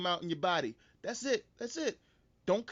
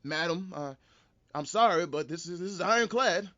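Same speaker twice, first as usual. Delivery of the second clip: stern judge; 4 dB louder than usual. Retold or imitated. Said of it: "and be like".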